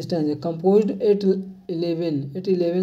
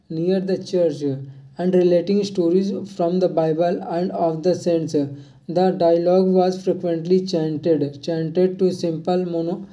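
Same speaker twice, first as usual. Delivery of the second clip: reads each phrase slowly and evenly for note-taking; a teacher reading a quiz question slowly; slow dictation reading; much slower than usual. Acted. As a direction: dictate it word by word to the class.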